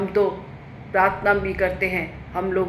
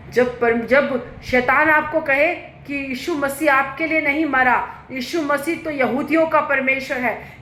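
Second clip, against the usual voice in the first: higher-pitched, emphatic preacher's delivery; forceful preaching; 7 semitones higher, 4 dB louder than usual. Real, not acted. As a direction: drive the message home from the pulpit. (ज़ोरदार, ऊँचे सुर में उपदेश)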